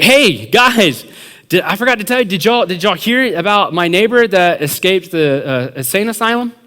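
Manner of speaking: high, lively mock-casual announcement; acted prank setup. Friend springing a prank on his pals, high and eager.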